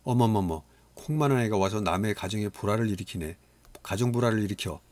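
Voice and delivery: put-on a mother blaming the boy; shouting at a child. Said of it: "소리쳤다". (소리치는 엄마)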